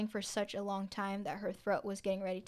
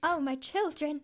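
higher, louder mock wail; weeping ghost woman; 6 semitones higher, 5 dB louder than usual. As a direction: ham up the ghost's mournful cry. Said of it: "oh, what?".

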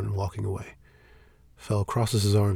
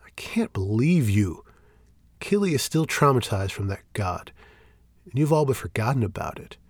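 incredulous, frustrated; 2 semitones higher than usual. Acted. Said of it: "incredulous and frustrated".

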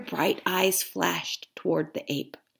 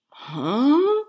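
1 grunt; 7 semitones higher than usual. Acted. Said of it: "grunted the bear".

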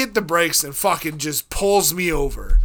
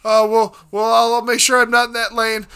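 scared; 5 semitones higher, 5 dB louder, slower than usual. Retold or imitated. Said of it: "I was scared".

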